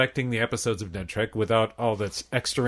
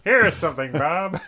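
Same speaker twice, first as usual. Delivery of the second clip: higher presidential impression; Gerald Ford; 5 semitones higher than usual. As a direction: lift the voice into a mock president. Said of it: "an actual quote from Gerald Ford".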